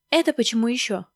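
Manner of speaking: mildly indignant retort. Acted. Maskin objects to Stalin's order, indignant. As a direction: object with a flare of protest. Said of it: "возмутился Маськин".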